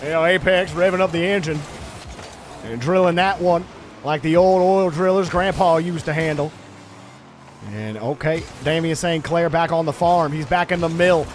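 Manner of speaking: put-on Southern sportscaster; lightly performed Southern farm commentary; Southern accent. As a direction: call the play with a Southern twang. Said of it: "broken out into a southern accent".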